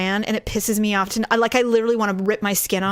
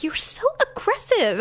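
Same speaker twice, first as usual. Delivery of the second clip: mock butthurt husband; 11 semitones higher than usual. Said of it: "like, butthurt".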